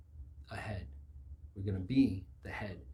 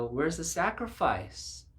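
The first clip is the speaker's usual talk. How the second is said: put-on high, slow small-child question; a father quoting his son's innocent question, in a high child voice; little child voice; 7 semitones higher, 4 dB louder, slower than usual. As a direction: ask it like a little kid. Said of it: "in your little child voice".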